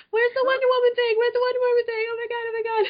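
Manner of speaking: very high, loud squealing fan voice; gobsmacked. Pretend. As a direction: shriek like a starstruck fangirl. Mock fan squealing over Wonder Woman.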